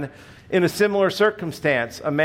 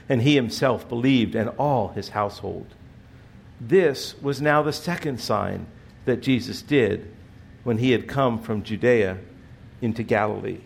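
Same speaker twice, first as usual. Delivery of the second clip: scripture reading. Acted. Preacher reading the Bible to the congregation, measured. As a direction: read the passage with reverence. Reads scripture passage aloud.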